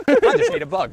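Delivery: coughing out a swallowed bug; sputtering after swallowing a bug; just swallowed a bug. Real, not acted. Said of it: "That was me eating a bug".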